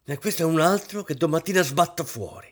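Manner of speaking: high, loud furious mistress of the house; furious outburst. A narrator's reading. Mistress scolding George the servant, furious high shout. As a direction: snap at the servants in a fury. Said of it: "con un tono così furibondo".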